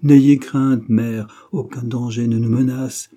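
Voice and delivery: loud, lively burst of reassurance; boy's loud, light-hearted outcry; laughing exclamation. A narrator's reading. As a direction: call out boldly to brush off mother's fear. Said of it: "qui s'écria en riant".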